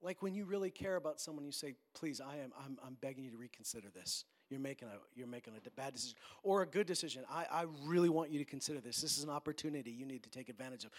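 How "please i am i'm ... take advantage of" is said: earnest pleading. Acted. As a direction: plead gently with someone you care about. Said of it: "When you are pleading with someone".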